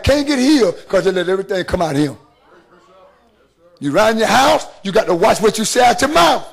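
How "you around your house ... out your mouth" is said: the preacher hammers home his point with a shout; preached shout. Real, not acted. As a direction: shout "watch what you say out your mouth" at the congregation.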